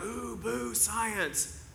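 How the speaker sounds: high, mock booing of science; a hint of mock disdain. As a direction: jeer at it like a scared crowd. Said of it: "a lot of Christians are like".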